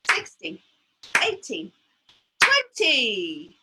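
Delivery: hushed counting, numbers breathed out; whispering the numbers. Shown as a demonstration. Teacher whispering the skipped numbers to young children. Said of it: "is going to whisper".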